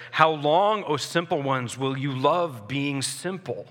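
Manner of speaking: urgent, pleading call, slowing at the end; urgent plea. Acted. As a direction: plead with the simple ones, pressing and slow. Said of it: "hear the urgency in her voice".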